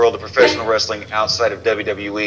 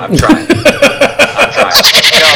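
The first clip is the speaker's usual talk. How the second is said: whiny plea; 8 dB louder, much slower than usual. Acted. Pleading, laughing.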